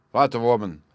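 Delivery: loud first exclamation; first cry. Acted. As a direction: open with a cry. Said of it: "cried the King of Bohemia".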